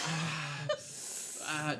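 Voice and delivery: pained hissing intake and soft "ah"; Peter Griffin. Retold or imitated. Showing how Peter hurts himself on Family Guy, imitated pained hiss. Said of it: "on Family Guy when, like, Peter, like, gets hurt, and he's like".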